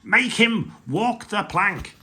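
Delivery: slow, loud pirate order; slow, loud pirate demand. Acted. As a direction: drag out the threat.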